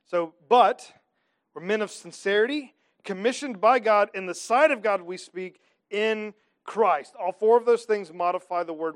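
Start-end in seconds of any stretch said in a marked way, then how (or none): 0.5-7.1 loud, ringing verse reading; emphatic proclamation. Acted. Preacher proclaiming Paul's words to the church, loud. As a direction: proclaim it to the back row.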